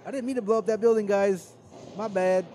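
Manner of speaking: very high, loud, fast goofy apology. Retold or imitated. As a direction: play the sheepish oops guy. Voicing clumsy henchman, laughing.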